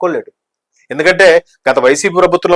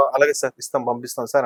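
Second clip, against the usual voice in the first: retold compliance; 3 semitones lower, 9 dB quieter than usual. Acting out compliant MLAs on phone.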